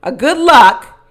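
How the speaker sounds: slow, drawn-out put-on cheer; fake enthusiasm. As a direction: imitate a falsely upbeat send-off. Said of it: "this is all fake enthusiasm".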